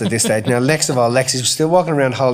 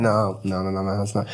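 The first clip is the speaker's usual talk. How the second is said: put-on quiet child protest; 6 semitones lower, 7 dB quieter than usual. Daughter quoted denying hand is fine.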